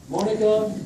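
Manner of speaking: high, loud call of a name. Real, not acted. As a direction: call out for someone missing. Calling for absent Monica.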